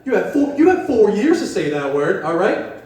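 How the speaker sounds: mock scolding, rising; scolding the old men at the coffee shop about a slur; lecturing the old guys. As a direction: wag a finger at them. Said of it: "I told those old guys that".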